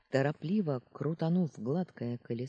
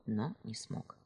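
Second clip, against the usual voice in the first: usual speaking voice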